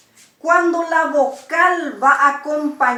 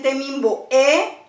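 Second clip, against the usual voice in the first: "temimbo e" with the voice leaning on final "e"; lifted, emphasized "e" after "temimbo"; phonetic accent. Shown as a demonstration. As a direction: stress the closing "e" of "temimbo e". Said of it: "Acentuamos fonéticamente".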